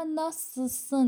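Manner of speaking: "ناسسن" with the l all but silent; native fast pronunciation. Shown as a demonstration. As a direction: say "ناسسن" quickly, swallowing the l. («ناسسن» با لامِ خیلی خفیف)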